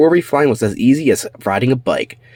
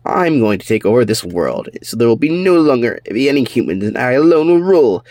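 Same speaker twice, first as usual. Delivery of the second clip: villain boast; 3 semitones higher than usual. Acted. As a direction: rise to a triumphant declaration.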